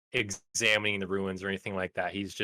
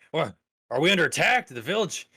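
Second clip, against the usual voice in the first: high, fast, bewildered questions; startled confusion; 8 semitones higher, 4 dB louder, faster than usual. Acted. Villager waking to rubble, asking in startled alarm. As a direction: jolt awake and panic about the village.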